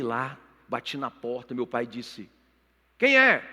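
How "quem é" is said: high, loud shout through a door; imitated father's shouted question; father calling out. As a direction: call out sharply to whoever knocked.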